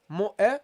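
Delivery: "Mu, uh" with an added uh sound; wrong trailing uh. Shown as a demonstration. Teacher replays the mistake for students. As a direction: tack an "uh" onto "Mu". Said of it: "This is not how it should be".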